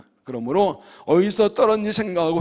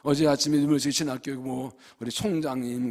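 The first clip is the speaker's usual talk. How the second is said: normal talking voice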